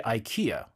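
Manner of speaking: "ikea" as eye-KEE-uh; American pronunciation. Shown as a demonstration. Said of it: "in the U S, we say".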